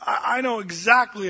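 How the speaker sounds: a hint of a dad with a ready answer; mildly acted fatherly comeback; dad's reply. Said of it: "And my dad said".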